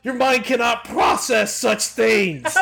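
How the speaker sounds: high, overwhelmed, voice straining; overwhelmed outburst. Acted. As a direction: blurt it out, still shaken. Rattled by the closet encounter.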